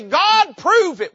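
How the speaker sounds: put-on high, loud sulky child demanding God prove it; mock whine.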